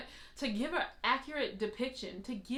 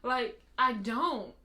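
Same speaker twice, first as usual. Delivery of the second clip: rueful admission; 3 semitones higher, 6 dB louder, much slower than usual. Real, not acted. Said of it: "I don't feel like that".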